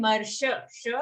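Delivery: marsha with a brief final "sha"; short sha. Shown as a demonstration. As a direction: cut the last vowel of marsha short.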